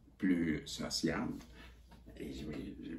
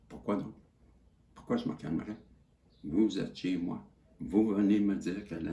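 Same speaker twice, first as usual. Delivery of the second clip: indignant retort; 5 semitones higher, 5 dB louder than usual. Retold or imitated. Retold telling off the police.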